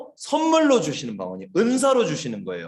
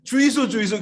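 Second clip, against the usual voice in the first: higher, laughing Gyeongsang dialect plea; 5 semitones higher than usual. Retold or imitated. Storyteller imitating the foreign man praying, Gyeongsang dialect. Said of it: "흑인 아저씨가 기도하는데".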